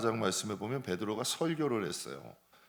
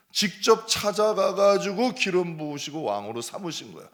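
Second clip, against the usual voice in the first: louder, higher impassioned sermon; fiery preaching; 5 semitones higher, 8 dB louder than usual. Acted. Pastor drives the point home to the congregation, fiery. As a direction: preach it hard to the back pew.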